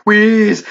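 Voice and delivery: wheezing gasp; breathless wheeze sound; spoken wheeze. Acted. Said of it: "gasping for breath".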